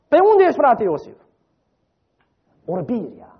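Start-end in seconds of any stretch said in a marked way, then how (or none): 0.1-1.2 high, loud mock call across a room; half-playful loud call for a missing brother. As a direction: call out as if searching a crowd. Mock searching, calling for brother.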